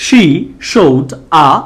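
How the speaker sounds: "She showed a" slowly, with clear sh; sh sound. Shown as a demonstration. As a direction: model "She showed a" word by word, sh on both words. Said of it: "শ এর মতো করে উচ্চারণ হলে".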